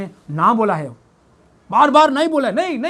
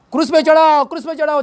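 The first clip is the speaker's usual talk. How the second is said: mock crowd shout; 5 semitones higher, 3 dB louder, faster than usual. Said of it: "ये चिल्लाने वाला लोग".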